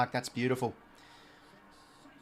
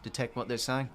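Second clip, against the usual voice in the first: hushed demo; 3 semitones lower, 6 dB quieter than usual. Shown as a demonstration. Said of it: "they're talking like this".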